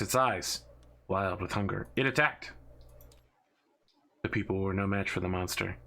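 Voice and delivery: dramatic storyteller voice, measured pace; story narration. A narrator's reading. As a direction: tell it like a grim legend. Intro story narration read aloud.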